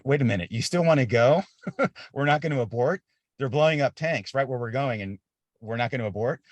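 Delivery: mildly hammed-up double take; retold disbelief. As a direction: question it as if still processing. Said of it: "I had to process".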